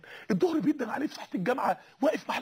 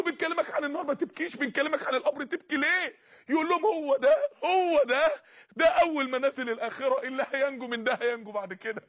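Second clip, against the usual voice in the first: tearful retelling; 2 semitones higher than usual. Retold or imitated. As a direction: voice breaking as he retells. Othman weeping at grave.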